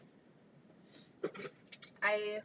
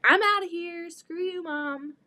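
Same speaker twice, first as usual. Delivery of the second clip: mock bratty kids, higher; defiant kids; 7 semitones higher, 6 dB louder than usual. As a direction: sass back like a runaway kid. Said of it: "they choose to be like".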